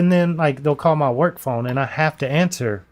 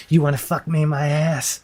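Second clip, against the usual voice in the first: rough imitation of a Middle Eastern or Indian caller's accent; lightly put-on Indian or Middle Eastern accent; imitated Indian-or-Middle-Eastern accent. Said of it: "either Middle Eastern or Indian".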